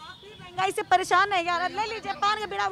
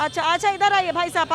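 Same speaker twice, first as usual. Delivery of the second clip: calling out; 6 dB louder than usual. Real, not acted. Reporter calls a passer-by over.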